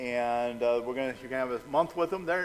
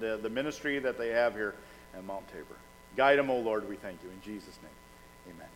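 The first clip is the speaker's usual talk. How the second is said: public prayer; 2 semitones lower than usual. Real, not acted. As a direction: lead the congregation in prayer. Leads a prayer for new members.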